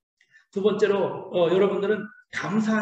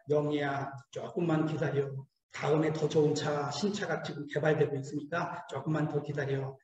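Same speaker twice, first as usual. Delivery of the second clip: lower, softer, gently reassuring; tender God voice; 4 semitones lower, 5 dB quieter than usual. Pretend. God comforting a waiting believer, soft and low. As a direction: soothe her like a patient father.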